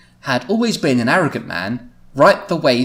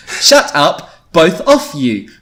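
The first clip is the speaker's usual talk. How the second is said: mildly raised angry voice; 5 semitones higher, 7 dB louder, much slower than usual. A narrator's reading. Louise so angry at her friends, telling them off angrily. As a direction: tell them off, higher and louder. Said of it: "She's so angry she can't speak".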